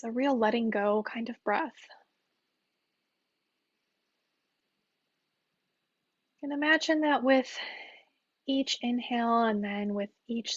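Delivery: calm, unhurried meditation guide with long pauses; guided meditation. Real, not acted. Teacher guiding listeners through mindful breathing, calm meditation voice.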